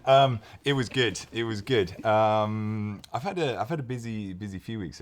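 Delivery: slightly hoarse after shouting. Real, not acted. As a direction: speak through a worn, hoarse throat. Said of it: "I'm a little bit hoarse".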